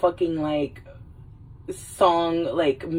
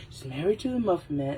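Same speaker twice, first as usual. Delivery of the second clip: laughing through quote; 2 semitones lower, 6 dB quieter, faster than usual. Retold or imitated.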